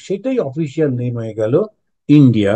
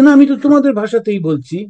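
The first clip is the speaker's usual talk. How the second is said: defensive insistence; 6 semitones higher, faster than usual. Retold or imitated. Bengali newcomer defends his answer.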